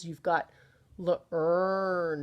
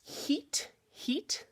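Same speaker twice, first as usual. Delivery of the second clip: breathy demo word; 8 semitones higher, 5 dB quieter than usual. Shown as a demonstration. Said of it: "so we've got".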